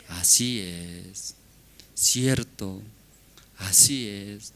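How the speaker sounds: slow, drawn-out agreeing; resigned acceptance. Acted. Husband must answer his wife's complaints, meekly accepting. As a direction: concede each point patiently. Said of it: "¿Cómo debe responder?".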